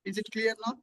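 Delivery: faint, low-volume voice heard over a weak mic; barely audible. Real, not acted. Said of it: "Your voice is very low".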